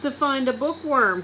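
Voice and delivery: put-on boy gleefully finishing his joke. A narrator's reading. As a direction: deliver the punchline with glee. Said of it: "Kirk gleefully answered".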